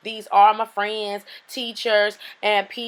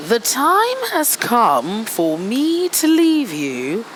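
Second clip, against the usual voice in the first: put-on British accent. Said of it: "I had to get rid of that British accent".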